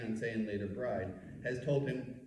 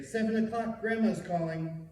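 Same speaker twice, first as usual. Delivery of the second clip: excited; 9 semitones higher, 5 dB louder than usual. Retold or imitated. Kids calling out at phone.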